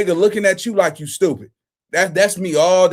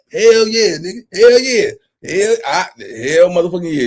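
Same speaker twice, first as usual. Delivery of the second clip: hyped; 3 dB louder than usual. Real, not acted. Cheering on stream.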